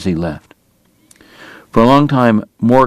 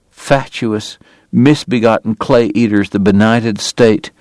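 bitter precision. Acted. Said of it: "bitter, quiet, hard-won precision".

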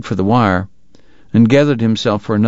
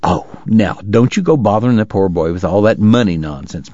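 breezy Southern lady. Acted. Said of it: "Miss Segar said breezily".

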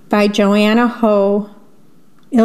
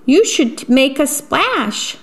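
high, slow singsong suggestion; encouraging storybook otter; 5 semitones higher than usual. Acted. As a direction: draw it out high, coaxing him to play. Otter giving Jim advice.

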